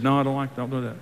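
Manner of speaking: soft, kindly reproof; understated, hushed nudge; gentle correction. Acted. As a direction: correct quietly, without condemning. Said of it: "The Holy Spirit's the kindest".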